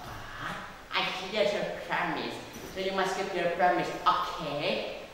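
lightly voiced croaking storybook frog; bargaining frog. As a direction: play a frog striking a deal.

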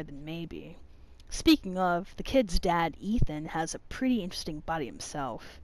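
soft, measured reading of a diary; reading aloud. Acted. Player reads a character's notes to viewers, measured reading. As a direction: read it steadily, lightly dramatic.

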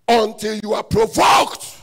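preacher's slow shouted emphasis; preaching shout. Shown as a demonstration. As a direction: hammer the repeat home.

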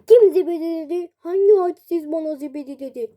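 loud indignant demand; offended yell. Acted. Man called zibidi demands who said it, loud indignant yell. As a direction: bellow at whoever insulted him.

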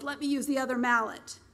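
light snarl. Acted. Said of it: "Mark snarled".

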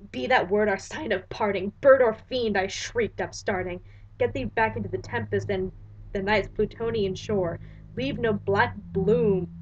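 measured, dramatic recitation of verse; solemn verse reading; poem reading. Acted. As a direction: read it like a haunted poet. Reads The Raven aloud.

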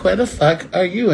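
mock-confront an absent man, voice lifted; demanding quote. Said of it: "I'd be like".

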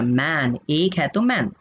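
slow, clear मैन said with a short a as in "man"; slow careful मैन, the teacher stressing its vowel; careful pronunciation. Shown as a demonstration. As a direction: draw out मैन so students hear the a. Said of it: "देखो pronunciation पे ध्यान देना".

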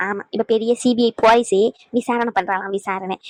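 low mocking grumble, sinking away at the end; sarcastic sneer. Elder mocking the woman's investigation, sarcastic. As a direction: belittle the questioner, dropping to a scornful low repeat. Sneers at daughter-in-law as CBI police.

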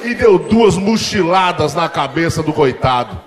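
father breaking into laughter as he tells; half-laughing accusing dad; dad telling it laughing. Retold or imitated.

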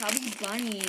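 mushy words around marshmallows; cheeks stuffed full. Real, not acted. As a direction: talk through a crammed mouth.

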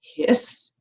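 voiceless, soft imitated snake hiss. Librarian listing animal racers for children, soft mock snake hiss. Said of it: "the snake".

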